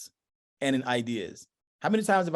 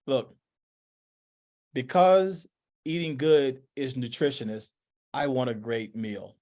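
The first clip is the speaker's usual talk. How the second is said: stiff, slow essay-style talk; slow and stiff, like reading a formal essay; mock formal speech; slower than usual. Speaker mocks stiff written-style talk at home, slow and formal. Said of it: "Like, who talks like that?".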